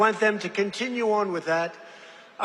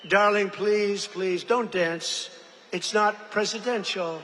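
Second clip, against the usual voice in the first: mock wife voice; slower than usual. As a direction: plead gently, drawn out. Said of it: "and she says".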